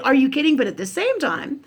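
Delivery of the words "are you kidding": higher, louder incredulous blurt; mock disbelief. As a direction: toss it off in retold shock. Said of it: "Or like".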